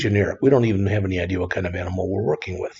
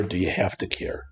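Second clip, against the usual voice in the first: whispered aside; 7 dB quieter than usual. Real, not acted. Teacher's rhetorical aside.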